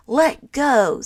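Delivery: loud sharp command; shouting. Acted. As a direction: yank it back, yelling. Tug of war over flag.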